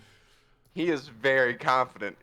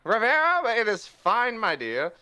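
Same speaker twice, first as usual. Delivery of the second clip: higher, charming voice slowing into a drawn-out watch and learn; smooth over her worry with swagger; suave Puss; 6 semitones higher, 3 dB louder, slower than usual. Acted. Puss reassuring Rivera, suave and slow at the end. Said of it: "Rivera's like".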